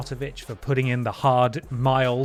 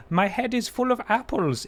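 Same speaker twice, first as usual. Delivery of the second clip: imitating a German accent, pitched higher; quoting Peter in a jokey higher German accent; 9 semitones higher than usual. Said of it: "in a German accent".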